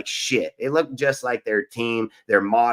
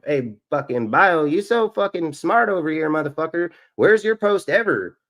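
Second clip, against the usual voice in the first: angry mock taunt; 5 semitones higher than usual. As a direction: rise up and get in their face. Angrily mocking a commenter.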